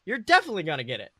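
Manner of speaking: mother reassuring her disappointed son; mom's voice. Acted. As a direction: cheer up her son after the loss. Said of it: "She finally responds with a small laugh".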